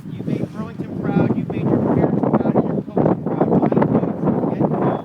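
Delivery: loud, proud pep talk; rousing speech. Real, not acted. League head's rousing praise to players.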